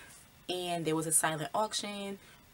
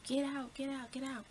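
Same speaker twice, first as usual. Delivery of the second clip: retold mock yell; 9 semitones higher than usual. Hypnotized guest warning Chris to leave, high, restrained mock yell. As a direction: imitate a panicked-warning yell without the volume. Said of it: "he yells at Chris".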